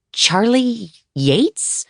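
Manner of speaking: high, slow incredulous question; stunned disbelief. Acted. Writer stunned by the famous name, slow and high. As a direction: ask as if you misheard. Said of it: "like there was room for confusion".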